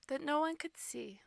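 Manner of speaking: soft secret whisper. Acted. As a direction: breathe it like a secret. Whispering in the story's end.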